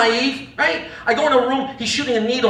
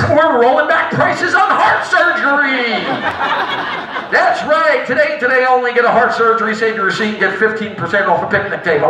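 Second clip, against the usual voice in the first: store announcer; 2 semitones higher than usual. Pretend. Comic pitches a hospital's rollback deal, mock announcer.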